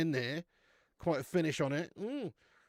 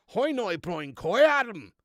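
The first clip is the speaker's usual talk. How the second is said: put-on Belfast accent; 3 semitones higher, 8 dB louder, slower than usual. Streamer trying an accent on request, mock Belfast accent. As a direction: exaggerate a Belfast accent, pitched up. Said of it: "Good Belfast accent".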